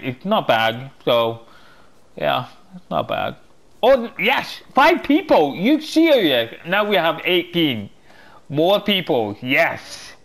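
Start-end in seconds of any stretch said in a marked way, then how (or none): 3.8-10.1 high, loud delighted cheer, easing down; thrilled outburst; real excitement. Real, not acted. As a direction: celebrate a sudden windfall, squealing at first. Thrilled at gaining more people in game.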